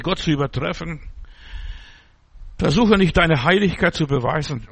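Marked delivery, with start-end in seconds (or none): 2.6-4.7 louder, insistent „Versuche nicht“; louder warning. Real, not acted. Preacher repeats the warning to his congregation, louder. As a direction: drive the warning home.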